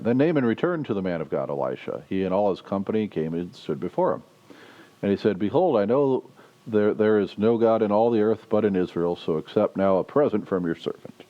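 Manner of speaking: reads the Bible passage aloud to the congregation; measured, lightly lifted reading voice; scripture reading. Acted. Preacher reading the passage aloud to the congregation.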